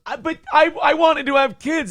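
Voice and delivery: high, pleading mock whine; whiny girlfriend. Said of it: "she goes".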